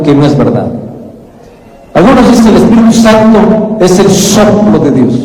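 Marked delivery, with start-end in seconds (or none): 1.9-5.1 mounting sermon intensity, quick on the final denial; rising preaching fervor. Real, not acted. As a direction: build each "Otros dicen" higher toward the punchline. Preacher builds against false ideas.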